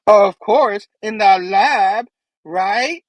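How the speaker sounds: insistent reminder. Retold or imitated. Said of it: "And she's like".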